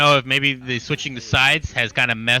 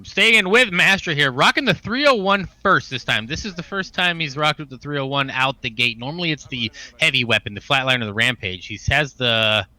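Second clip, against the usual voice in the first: esports caster. Acted. Continues play-by-play cast.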